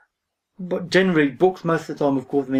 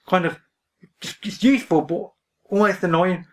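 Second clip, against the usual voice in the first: dry mock complaint; sarcastic; 2 semitones higher than usual. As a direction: say it with a sarcastic edge. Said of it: "I'm being sarcastic there".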